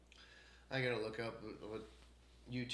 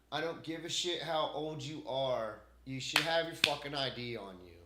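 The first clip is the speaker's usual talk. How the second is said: angry rant; 3 semitones higher, 5 dB louder than usual. Real, not acted. Ranting about customers without ID.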